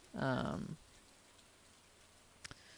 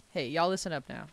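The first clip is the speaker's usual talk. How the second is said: mild Southern call for attention; easygoing Southern twang; Southern drawl; faster than usual. Shown as a demonstration. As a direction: let a light Southern accent out. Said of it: "it does come out when I say".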